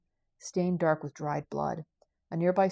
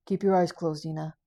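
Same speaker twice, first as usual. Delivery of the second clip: firm order, louder at first, then settling; controlled, protective command; calmer instruction; 5 dB louder than usual. Acted. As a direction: tell her firmly but without panic. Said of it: "Haldrick sounded calmer now".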